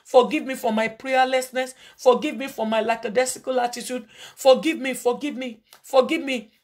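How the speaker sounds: intercessory prayer to the congregation; fervent prayer. Acted. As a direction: plead for forgiveness before God. Leads congregation in repentance prayer.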